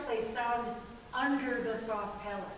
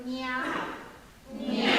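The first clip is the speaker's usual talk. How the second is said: cat meow; 3 dB louder than usual. Shown as a demonstration. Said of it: "I can do that from my throat".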